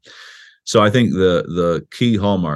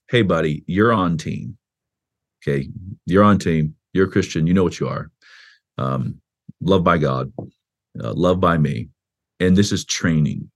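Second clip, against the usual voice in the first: put-on gentle reassurance to a child. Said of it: "the covenantal idea is".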